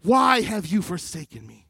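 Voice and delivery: high loud anguished cry to God. Acted. Jesus on the cross crying out to God, anguished. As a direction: cry out the opening words, then ease off. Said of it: "You hear his humanity crying out".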